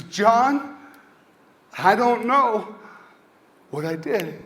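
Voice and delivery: mock yell that falls away at the end; retold crying-out. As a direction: cry out as the upset child, without full volume. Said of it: "he yells out loud".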